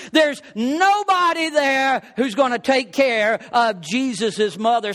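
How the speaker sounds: mounting sermon emphasis, slowed right down; preaching. Acted. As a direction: drive each line home from the pulpit. Preacher building to emphatic point.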